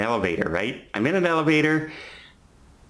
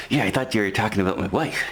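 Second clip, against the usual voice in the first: imitating crazy smile; faster than usual. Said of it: "a crazy smile on his face".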